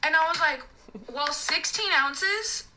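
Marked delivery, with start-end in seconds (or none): 1.1-2.6 pointed over-explaining. Retold or imitated. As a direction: explain it as if to a small child. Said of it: "That's literally how I said it".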